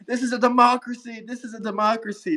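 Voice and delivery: mildly mocking outraged chant; imitating a shouting liberal; mock yell. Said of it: "cries at the top of their lungs".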